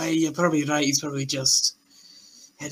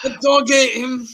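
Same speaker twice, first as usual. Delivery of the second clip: high, loud, tearful whine; hammed-up wail of loss; mock grief; 7 semitones higher, 5 dB louder than usual. Player mourning the goblin to the table, mock grief.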